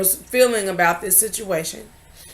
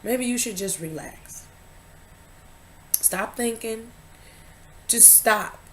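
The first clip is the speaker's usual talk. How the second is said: whispered and much softer, like calming someone; soft hushed whisper; 2 semitones higher, 7 dB quieter than usual. Retold or imitated. Husband telling her to stop and relax, whispered softly. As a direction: hush it out gently, almost breathless. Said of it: "he said".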